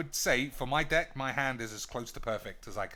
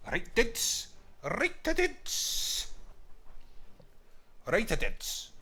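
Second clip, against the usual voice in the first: squeaky high "Right, dits!" getting higher; pitched-up silly hello to viewers; mock high greeting; 9 semitones higher, much slower than usual. Gamer greeting his viewers in a squeaky high voice.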